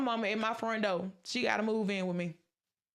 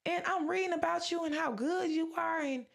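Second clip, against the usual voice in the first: mildly indignant, higher-pitched questioning of God; retold protest, rising higher toward the end; retold anger at God; 5 semitones higher than usual. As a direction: challenge God with hurt disbelief, retelling it. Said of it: "And I was angry at God".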